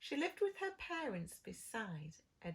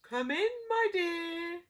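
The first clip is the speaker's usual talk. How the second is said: loud, higher sly wolf voice; wolf growl; 9 semitones higher, 10 dB louder than usual. Acted. Wolf in bed inviting the girl in, loud sly voice. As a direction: lure her in with a growl. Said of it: "growled the wolf".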